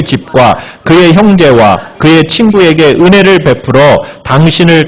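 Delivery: measured reading of the verse; scripture reading. Acted. Preacher reads the verse aloud with the congregation. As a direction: read the passage aloud together.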